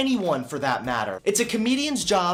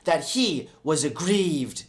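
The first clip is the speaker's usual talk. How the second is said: whiny voice; 3 semitones lower, slower than usual. Acted. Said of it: "Reading it in a whiny voice".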